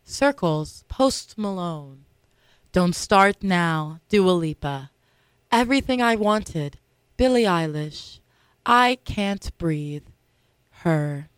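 hushed nature documentary narrator. Acted. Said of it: "with my narrator voice".

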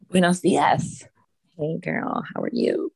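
groggy, rough morning voice; hungover voice. Real, not acted. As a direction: sounds hungover but isn't. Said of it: "sounds like I'm hungover".

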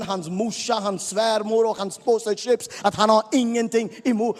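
loud, high and fast, building to a shout; preaching at full force. Acted. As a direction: drive it harder with every line.

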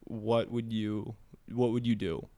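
slow, spaced-out questioning. Shown as a demonstration. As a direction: draw the question out with deliberate pauses. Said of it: "try to talk slower".

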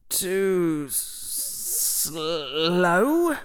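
put-on indignant boy. Harry stung.

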